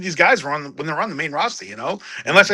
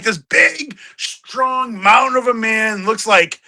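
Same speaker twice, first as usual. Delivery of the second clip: higher and very slow mock-grand voice; mock epic hype; 4 semitones higher, much slower than usual. Mocking the big man's ring strut, slow and grandiose. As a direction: stretch it out like a pompous trailer. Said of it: "I'm like".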